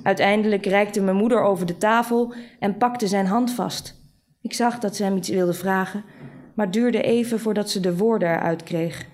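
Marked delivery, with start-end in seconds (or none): none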